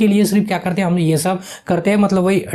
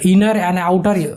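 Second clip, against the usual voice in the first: slow reading; much slower than usual. Shown as a demonstration. Teacher reads English words slowly.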